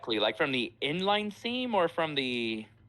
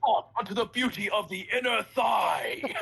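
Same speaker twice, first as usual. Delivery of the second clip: slow, high theatrical shout; dramatic declaration; 7 semitones higher, slower than usual. Acted. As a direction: proclaim it like a tragic poet. Mock dramatic outburst.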